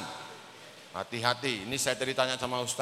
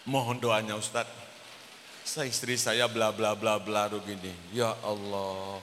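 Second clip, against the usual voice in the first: retold plea for prayer; 5 semitones lower than usual. Voices worried husband phoning ustadz. (menirukan suami memelas, lirih)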